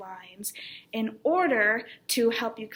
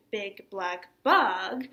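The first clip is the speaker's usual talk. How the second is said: slow "big black bug" with "bug" rising; stress on BUG; 3 semitones lower, much slower than usual. Shown as a demonstration. Teacher contrasting it with the bear phrase, stress on "bug". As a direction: draw out and lift "bug". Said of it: "saying those in different ways".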